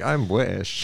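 badly faked British accent. Shown as a demonstration. Comedian admitting he has no good accents, bad British accent. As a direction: attempt a clumsy British accent. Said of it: "pretty much my British accent".

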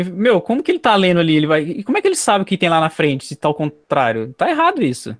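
leve protesto de quem não se conforma; indignação encenada. Retold or imitated. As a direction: reclame com indignação encenada, subindo no fim. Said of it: "eu fico indignado". (incredulidade indignada, levemente teatral)

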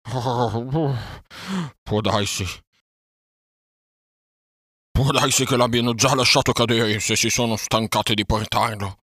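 groan, then wail in self-reproach; wailing despair. A narrator's reading. Bear fears the boy was dropped and blames himself, wailing loudly.

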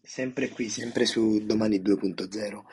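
hoarse, worn-out voice; voice giving out. Real, not acted. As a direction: speak through a tired, rough voice. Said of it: "Scusate un po' per la voce".

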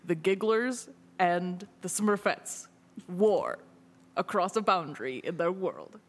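movie trailer voice. Acted. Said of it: "the trailer voice".

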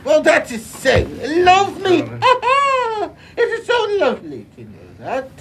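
mock British accent. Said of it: "adopted British accents".

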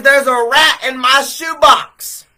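loud, high, slow cry of alarm; panicked shout. Retold or imitated. Young man shouting to the store clerk about the rat, panicked. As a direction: yell it like you just saw a rat.

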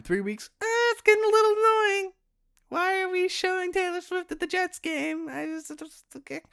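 high, strained fed-up whine; exasperated whine. Real, not acted. Fan sick of a singer on the Jets broadcast, high exasperated whine. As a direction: whine like you've had it up to here. Rant escalating, whiny high voice.

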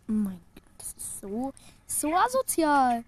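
breathy whisper fighting a laugh; suppressed giggles. Real, not acted. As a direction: hold the laugh in, barely. Trying not to laugh, challenge.

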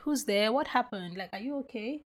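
gentle check-in, softening toward the end; easy, unforceful, caring questions; calm. Shown as a demonstration. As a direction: ask calmly, with concern. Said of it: "always on the very calm side".

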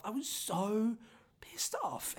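hushed whisper with the anger held in; angry whisper. Real, not acted. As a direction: breathe it out, voiceless and intense.

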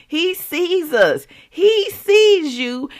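high, slow, voice breaking with tears; tearful. Real, not acted. Telling viewers God sees them, tearfully crying. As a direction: let the tears break through.

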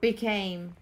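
one word at a time, with pauses; clipped single words, each one alone; staccato. Shown as a demonstration. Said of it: "build the story one word at the time".

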